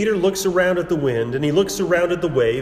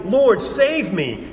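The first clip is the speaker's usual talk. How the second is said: slow, higher mock cry for help; panicked shout; 5 semitones higher, slower than usual. Peter sinking in the waves, a higher, slow, half-acted desperate cry. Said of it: "panicking and shouting".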